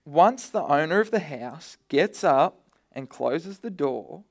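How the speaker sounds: scripture read slowly, every word weighed; slow the verse right down so they can follow; slow, deliberate reading. Shown as a demonstration. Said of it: "Follow with me from verse twenty-five".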